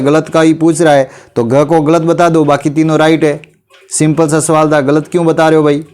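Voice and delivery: ordinary talk, nothing marked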